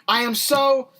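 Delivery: winded after a long rant; breathless, pushing through the words; out of breath. Real, not acted. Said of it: "You're a little out of breath there".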